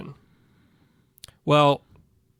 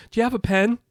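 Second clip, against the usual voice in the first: imitating the lady; 7 semitones higher, faster than usual. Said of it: "She goes".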